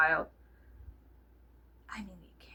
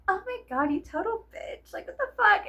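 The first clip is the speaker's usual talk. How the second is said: outraged; 11 semitones higher than usual. Retold or imitated. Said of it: "And I was like".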